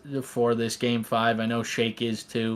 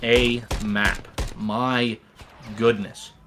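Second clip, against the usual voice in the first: stunned awe; slower than usual. Real, not acted. Caster stunned after the finish.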